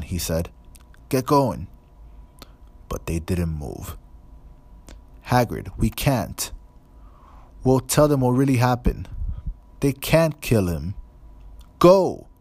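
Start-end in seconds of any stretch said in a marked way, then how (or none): 1.1-1.7 urgent command. A narrator's reading. Hagrid pushing them away. 5.3-10.9 higher, louder pleading, rushed; desperate plea. A narrator's reading. Hermione begs Hagrid to let them stay, desperate and loud. 11.8-12.3 a loud, high bark of a single word; fierce command. A narrator's reading. Hagrid orders the children away, fierce shout. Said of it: "said Hagrid fiercely".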